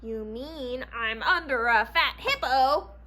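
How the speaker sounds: mild snap. Acted. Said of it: "snapped Foxy Loxy".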